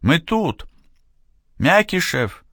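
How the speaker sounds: high desperate calling out; shouting. A narrator's reading. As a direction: yell to the pilot overhead. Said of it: "закричал сержант".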